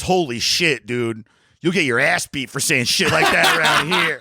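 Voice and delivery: imitating a warning kid. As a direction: warn him off, half laughing. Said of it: "the guy goes".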